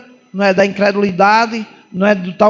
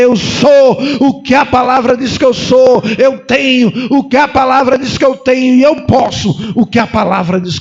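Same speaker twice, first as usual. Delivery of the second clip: bold declaration. Shown as a demonstration. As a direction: declare it like an unshakable confession. Congregation taught to declare.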